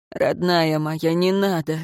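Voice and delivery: ordinary delivery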